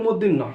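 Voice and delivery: "মূর্ধন্য" garbled as mod-din-no; common mispronunciation. Shown as a demonstration. Teacher quoting what many say, "মূর্ধন্য" mispronounced as moddinno. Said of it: "আমরা অনেকে বলি".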